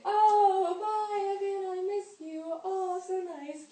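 high, sing-song gushing goodbye; mock sweet goodbye. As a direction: gush over the boyfriend. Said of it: "And so I'm like".

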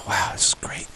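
a hushed, pleased whisper to himself; whispering, quietly tasting the drink; whispered delight. Retold or imitated. Sober guest at the bar, whispering over his drink.

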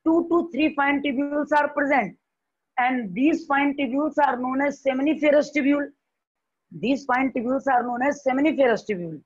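slow, measured dictation pace. Shown as a demonstration. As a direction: dictate for note-taking. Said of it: "slow dictation of definition". (धीरे धीरे लिखवाना)

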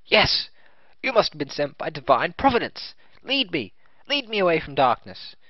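fervent cry for guidance; eager, zealous warrior; excited character voice. Acted.

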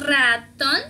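ratón with an over-rolled double R at the start; wrong double R. Shown as a demonstration. Teacher shows learners the mistake, wrong long-rolled R in ratón. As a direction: open ratón on a long, heavily trilled rr. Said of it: "Esto está mal dicho".

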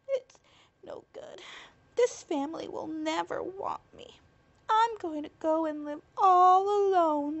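sad. Acted. Spider rejected, alone and sad.

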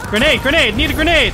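man down shout. Real, not acted. Calling out in combat.

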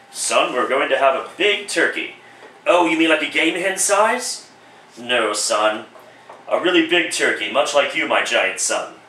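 lightly voiced father. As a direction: answer the boy as his father. Father answers Tiny Tim.

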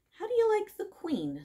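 snooty bored cat. A narrator's reading. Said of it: "said the cat in a low voice".

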